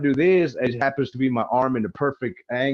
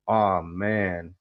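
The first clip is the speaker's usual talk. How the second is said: lower, unbothered sigh of a line; totally calm; 4 semitones lower than usual. Retold or imitated. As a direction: say it like nothing is wrong. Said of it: "the most fucking calm".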